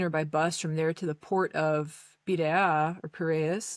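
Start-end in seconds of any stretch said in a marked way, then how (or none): 2.3-3.0 Piraea said the Greek way; Greek pronunciation. Shown as a demonstration. Traveler naming the Athens port to listeners, Greek pronunciation. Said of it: "with a more American accent". 3.1-3.8 Piraeus said the American way; American accent. Shown as a demonstration. Traveler restating the port's name for listeners, American accent. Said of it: "with a more American accent".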